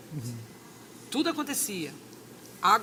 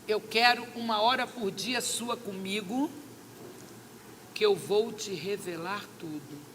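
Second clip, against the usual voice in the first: slow divine voice; 2 semitones lower than usual. Retold or imitated. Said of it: "aquela voz assim".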